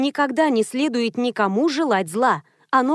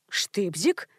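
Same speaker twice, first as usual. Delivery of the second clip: puzzled; 4 semitones lower, 6 dB quieter than usual. A narrator's reading. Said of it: "с растерянностью переспросила".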